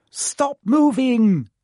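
high, loud, slow order; commanding shout. A narrator's reading. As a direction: bark the order to freeze. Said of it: "Hermione ordered them".

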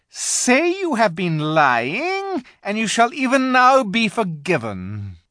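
high, loud, slow raging threat; furious witch. A narrator's reading. Witch raging at the terrified animals. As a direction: menace them into recanting.

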